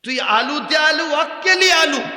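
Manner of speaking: loud, high Bogura dialect rhyme. Retold or imitated. Speaker to the Cumilla crowd, loud Bogura dialect. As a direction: belt it out in thick Bogura dialect. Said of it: "আমরা এতই কঠিন ভাষায় কথা বলি".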